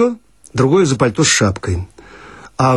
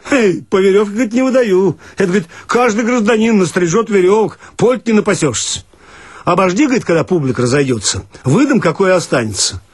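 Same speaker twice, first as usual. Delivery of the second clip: much higher, pushy and officious; grumpy bath attendant; 7 semitones higher, faster than usual. Acted. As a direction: bark a bureaucratic refusal over the string. Attendant refuses the coat.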